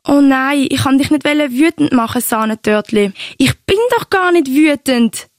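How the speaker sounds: höher, halb gespielte Beteuerung im Liebesstreit; leicht übertrieben beschwichtigen; gespielt beleidigt. Retold or imitated. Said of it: "hat's amix etwa so tönt". (Oma spielt dem Enkel das Telefonat vor, gespielt gekränkt)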